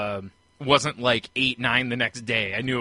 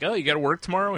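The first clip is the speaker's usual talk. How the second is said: put-on slurring drunk voice; 7 semitones higher, faster than usual. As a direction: slur it like you're drunk. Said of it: "in my almost slurring voice".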